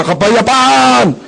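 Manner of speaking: slow drawn-out plea for peace; mock heroic shout; peace-maker's cry. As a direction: call out to stop the fight. Stepping between fighting neighbors.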